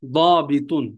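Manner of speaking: দাবিতুন with the first vowel drawn out; careful model pronunciation. Shown as a demonstration. Teacher showing students the word, দাবিতুন pronounced carefully. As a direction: sound out দাবিতুন carefully, holding the long vowel. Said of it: "উচ্চারণটা খেয়াল করেন".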